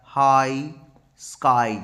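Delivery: "हाई", "स्काई" with a long "eye" ending; stretched I sound. Shown as a demonstration. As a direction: draw out the vowel in "हाई" and "स्काई". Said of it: "आई किस में आ रहा है".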